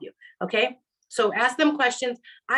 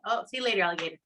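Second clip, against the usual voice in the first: breezy brush-off; 4 semitones lower, 4 dB quieter, much faster than usual. Retold or imitated. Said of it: "one night stand, Like".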